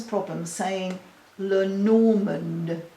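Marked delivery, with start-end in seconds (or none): 1.4-2.8 Lenormand drawn out slowly, each syllable separate; slow careful Lenormand. Shown as a demonstration. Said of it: "I have to say it very slowly".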